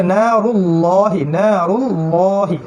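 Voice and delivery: নারুল্লাহি with a heavy, thick ল, drawn out slowly. Shown as a demonstration. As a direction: say নারুল্লাহি with a full, dark ল. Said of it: "ভারী, মানে পুরু".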